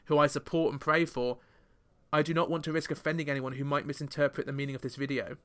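put-on a light British accent as a pop singer; mild mock British pop-singer accent; a singer's statement in a light British accent. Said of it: "I'm doing it in a British accent there".

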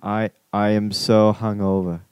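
slow, low stab at Australian; hesitant put-on Aussie, drawn out; attempted Australian accent. Shown as a demonstration. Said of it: "I don't know how to talk like you guys".

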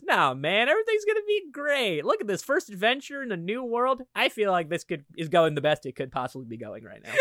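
high, breezy cheerful voice; oblivious optimism, lightly hammed; upbeat Tyler. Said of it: "just says".

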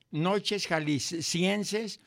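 "Noches Jaliscienses" drawn out very slowly, every sound spelled out; careful radio-host diction. Real, not acted. Host naming his show with slow deliberate diction. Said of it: "Es que le dijiste jaliscienses".

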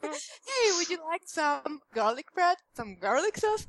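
high, playful Italian vampire voice; Italian Dracula. Acted. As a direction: offer garlic like a hammy Italian vampire. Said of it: "an Italian Dracula".

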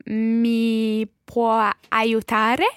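slow, careful recall of the phrase; drawing the words out while remembering. Shown as a demonstration. Learner recalls the Italian phrase slowly. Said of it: "Katie, can you remember how you say".

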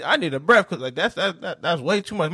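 amused mock panic; laughing protest. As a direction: laugh while refusing to get in. Retold refusal, laughing.

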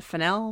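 "Fennell" as one of two competing stresses; debated surname pronunciation. Shown as a demonstration. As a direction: try out "Fennell" questioningly. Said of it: "last time we were like".

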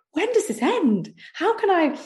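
high, slow mock exasperation; exasperated despair. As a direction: plead to be let out, half-hammed.

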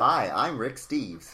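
a mock American tourist-guide accent, drawn out slowly; bad American accent. Host greets a co-host in a bad American accent. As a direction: put on a terrible American accent as Rick Steves. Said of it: "That's a terrible accent".

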